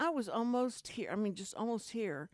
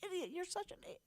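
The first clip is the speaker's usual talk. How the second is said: imitating her own frantic self-scolding, pitched way up; retold screaming at herself; 10 semitones higher, 7 dB quieter than usual. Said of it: "I started screaming in the car".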